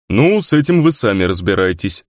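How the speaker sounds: firm, resolute dismissal; decisive. A narrator's reading. Grizzly leaves the approaching figure to the others, decisively. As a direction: hand it over with finality. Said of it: "решительно сказал Гризли".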